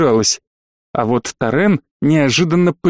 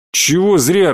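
angry; 3 semitones higher, slower than usual. Acted. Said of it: "рассердился он".

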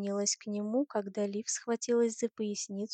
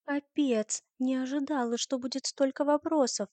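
higher-pitched, louder grumble; grumbling; 5 semitones higher, 4 dB louder than usual. Acted. Olivia complains after so many questions, grumbling. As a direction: grumble in a raised voice. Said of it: "проворчала Оливия".

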